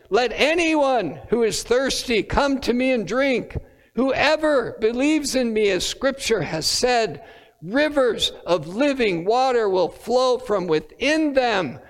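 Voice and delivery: proclaiming loudly. Retold or imitated. Jesus proclaiming at the festival, lifted call. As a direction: lift it like a call to a crowd. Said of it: "he said in a loud voice".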